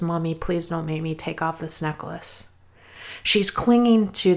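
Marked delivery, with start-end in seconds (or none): 0.0-2.5 put-on pleading child. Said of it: "eyes start welling up with tears".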